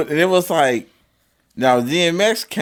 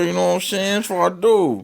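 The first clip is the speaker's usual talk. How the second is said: higher Kansas City player patter; 5 semitones higher than usual. Pretend. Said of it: "I call it my K C player voice".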